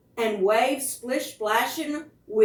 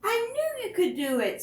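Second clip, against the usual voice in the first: proud praise; 12 semitones higher than usual. Acted. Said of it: "said Eleanor".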